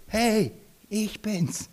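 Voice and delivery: a relaxed hey to friends; Jesus greeting. Acted. Jesus greets the disciples on the water, slow and easy. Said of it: "sagt Jesus".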